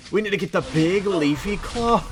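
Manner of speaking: high, loud hammy NPC voice; goofy character voice. Acted. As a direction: pump up the silly quest-giver. Reads NPC line in voice.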